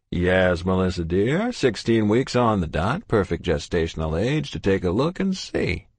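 put-on jovial old doctor, booming hello; kindly old doctor voice; cheery doctor. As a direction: greet them like a beaming family doctor. Doctor answers warmly.

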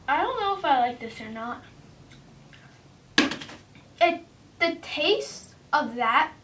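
small candy in mouth; tasting food while speaking; chewing while talking. Real, not acted. Seen 2: Puts flake in mouth at -1; hand at mouth, mouth working after.

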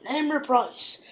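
lightly hammed-up impatient father; mock exasperated bargaining; imitating rich father. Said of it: "he's like".

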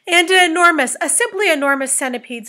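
high, loud, easing off slightly; screaming. A narrator's reading. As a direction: exclaim in mock-screaming amazement. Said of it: "screamed the captain".

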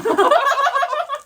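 high loud laugh; burst of laughter. Real, not acted. Mother's joke about small pancake. (크게 터지는 웃음)

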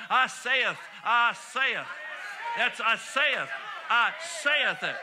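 rally the room, line after line; preaching call and response. Acted.

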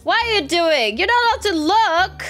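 high, loud laughing protest; playful protest. Real, not acted. To a friend barging into her house, high laughing protest. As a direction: shoo her out, half laughing.

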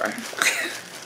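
excited giggle. Real, not acted. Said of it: "containing my excitement".

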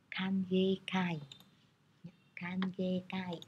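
"kangekai" said slowly, drawing out the "ge"; long vowel in "kangekai". Shown as a demonstration. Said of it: "nghênh sẽ có trường âm". (đọc chậm "kangekai", kéo dài âm "ge")

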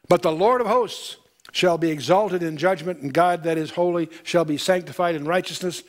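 measured, solemn Bible reading; solemn pulpit reading; scripture reading. Acted. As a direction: read it like holy writ to the congregation. Reads scripture aloud.

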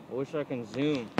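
speaking with a cigar in the mouth. Real, not acted. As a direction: let the cigar blur the words. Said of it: "I have a cigar in my mouth".

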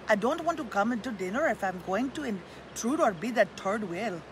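put-on friend in North Dakota accent. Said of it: "I did my North Dakota accent".

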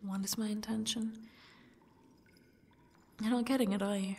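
soft, very quiet menacing whisper. Acted. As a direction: whisper it like a threat. Captor taunting captive.

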